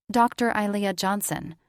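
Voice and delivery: "Doctor" pressed firmly, the name after it plain; stress on Doctor. A narrator's reading. Ilea insisting on her title to Richter, stress on "Doctor". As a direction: lean hard on "Doctor" to demand respect. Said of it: "She emphasized the doctor part".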